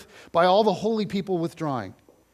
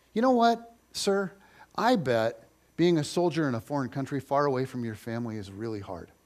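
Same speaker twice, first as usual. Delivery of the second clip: loving and gracious; 3 semitones lower than usual. Acted. Disciple to Roman soldier, gently and graciously kind. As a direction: gently offer him more help out of grace. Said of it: "out of sheer love and grace".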